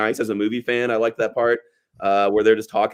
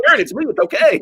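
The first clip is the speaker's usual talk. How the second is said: mock pleading; 12 semitones higher, 4 dB louder, faster than usual. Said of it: "And he's like".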